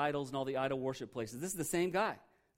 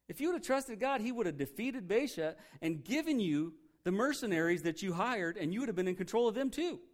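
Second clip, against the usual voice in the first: scolding prophet; 4 semitones higher than usual. Retold or imitated. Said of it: "flat out calls him a fool".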